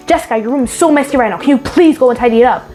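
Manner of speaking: fast, rushed scolding nag; impatient scolding. Shown as a demonstration. Mother nagging Jessica about her messy room, fast and impatient. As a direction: snap it out, annoyed and hurried. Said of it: "Instead of".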